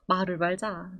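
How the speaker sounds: low, soft, resigned muttering; muttered give-up. Retold or imitated. Partner giving up on nagging, muttered softly. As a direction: let it drop with a tired mumble. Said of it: "이렇게 됩니다".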